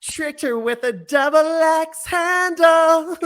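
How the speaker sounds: bright ad announcer read; commercial voice. Acted. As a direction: sell it like a Febreze ad. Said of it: "sounding a bit like a Febreze commercial".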